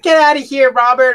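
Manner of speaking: high-pitched mock holler; retold yell. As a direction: call out high, imitating someone running off. Retold yell while running away.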